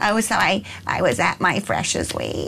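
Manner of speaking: put-on vocal fry with upward, rising intonation. Mimicking young girls overheard talking the other day: vocal fry with upward inflection. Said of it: "they combined the vocal fry with the upwards inflection".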